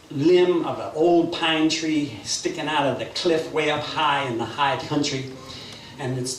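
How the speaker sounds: lightly animated Southern storytelling; folk tale narration. A narrator's reading. Storyteller opens a folk tale for listeners, lightly animated narration. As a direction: tell it like an unhurried folk tale.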